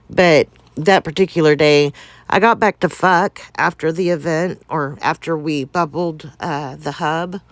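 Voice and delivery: breathless, needing a pause for air; out of breath. Real, not acted. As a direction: talk while short of breath. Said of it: "Let me kinda catch my breath a little".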